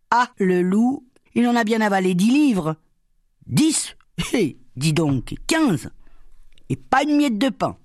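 high, excited exclamations; amazed villagers. Acted. Villagers marvelling at the glutton, high excited voices.

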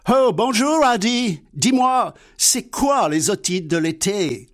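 Laurel's voice. Acted. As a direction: play the simple-minded friend, high and eager. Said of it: "Dialogue imaginaire entre Laurel et Hardy". (voix aiguë et naïve de Laurel)

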